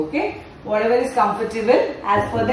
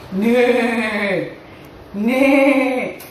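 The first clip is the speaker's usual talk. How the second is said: horse neigh. Pretend. Horse sound for kids.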